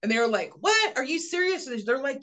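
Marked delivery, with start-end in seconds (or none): 0.6-1.7 high, incredulous "What? Are you serious?"; mock astonishment, voice jumping high; shocked disbelief. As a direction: act out a mother's stunned disbelief. Retold mother's shocked reply.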